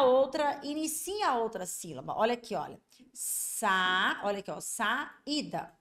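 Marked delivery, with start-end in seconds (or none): 3.1-4.2 "Sa" held long on its open vowel; isolated syllable. Shown as a demonstration. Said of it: "Uma sílaba terminou com uma vogal". 4.6-5.8 "saída" split into sa and ída; syllable split. Shown as a demonstration. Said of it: "a outra sílaba começou com uma vogal".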